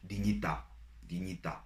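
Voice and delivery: "Dignità" accented on its final à; "dignità" as di-nyi-TA, stressed at the end; stress on last syllable. Shown as a demonstration. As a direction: dictate "dignità" with the weight on TA. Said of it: "an accent on the last letter".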